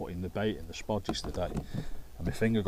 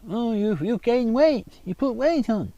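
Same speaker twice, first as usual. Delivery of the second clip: put-on much higher, louder, slow accented doctor; Doctor Now impression; 14 semitones higher, 8 dB louder, slower than usual. Doctor scolding a patient over weight gain, high slow mimicry. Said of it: "this Doctor Now anyway".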